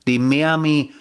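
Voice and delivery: slow, hammed-up bad Spanish accent; mock Spanish announcer, slowly; badly faked Spanish-accent announcing; terrible Spanish accent. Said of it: "that was a terrible accent".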